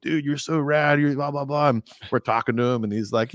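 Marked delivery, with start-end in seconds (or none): 0.0-1.7 high, half-shouted dude; imitating a starstruck kid meeting his idol; starstruck gush. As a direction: burst out like a dazzled fifteen-year-old. Starstruck teen meeting singer.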